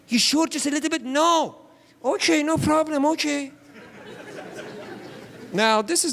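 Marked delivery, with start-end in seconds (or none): 0.1-3.5 pitched-up sugary mom voice; fake-easy surrender; coaxing mom. Mom pretending to drop the tomato juice, sugary and high.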